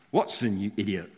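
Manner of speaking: mock exasperation, the punchline pushed up loud and high; exasperated punchline. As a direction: land the joke with a loud huffy burst. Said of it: "then says".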